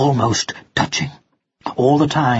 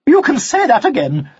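tart retort; 10 semitones higher, 3 dB louder than usual. Acted.

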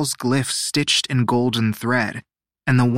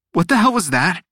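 higher, indignant demand; spluttering disgust; 6 semitones higher, 4 dB louder than usual. A narrator's reading. Teo after choking on the drink, spluttering outrage. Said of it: "Teo spluttered".

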